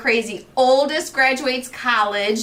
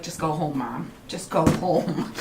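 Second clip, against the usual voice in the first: put-on exasperated kids; 7 semitones lower, 5 dB quieter than usual. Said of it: "they're like".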